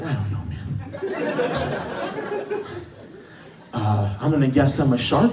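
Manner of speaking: a meek, hushed mumble; timid, quiet answer. Retold or imitated. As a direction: shrink back and answer softly. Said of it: "And I was like".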